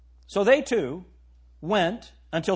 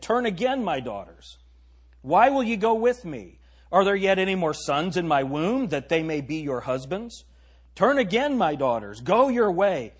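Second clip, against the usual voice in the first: dramatic scripture reading; 2 semitones higher than usual. Acted. Reads Naomi's plea dramatically.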